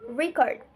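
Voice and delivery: RECORD with the first syllable stressed, REC-ord. Shown as a demonstration. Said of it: "with the stress on the first syllable".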